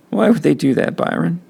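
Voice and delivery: high, tearful plea; crying question. A narrator's reading. Kenny crying to his brother in the bathroom. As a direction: ask through tears. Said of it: "I was sounding real bad".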